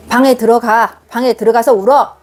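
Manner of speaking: 딱딱하게 명령하듯 "방에 들어가서 울어"; stern order. Shown as a demonstration. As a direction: bark the order coldly. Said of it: "이렇게 하는 게 아니고". (차갑게 명령하듯)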